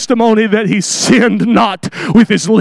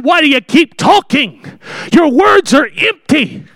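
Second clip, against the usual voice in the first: angry Job; 4 semitones higher than usual. Retold or imitated. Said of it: "I believe he was angry when he said that".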